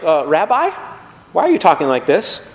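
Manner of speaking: mildly hesitant, politely questioning; puzzled but respectful. Acted. Follower questioning Jesus as Rabbi, puzzled but still respectful. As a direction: query the rabbi with a touch of doubt. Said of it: "their terminology for Jesus descends".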